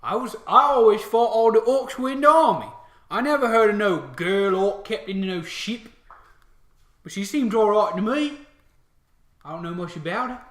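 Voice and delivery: high, loud orc pondering; orc soldier. Acted. Orc answering his comrade about the captain, orc voice. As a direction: muse loudly as a simple orc grunt. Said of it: "the other one says".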